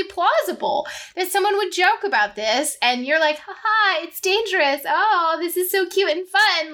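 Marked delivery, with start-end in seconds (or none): 3.4-6.7 higher-pitched, playful put-on gushing; mock giddy delight. Voicing someone who thinks he jokes about this, mock giddy. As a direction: imitate someone charmed by danger.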